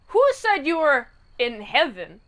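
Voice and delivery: spring the sinister twist, getting bigger; villainous reveal. Retold or imitated. Pip reveals the truth to Rocky, hammed-up villain reveal.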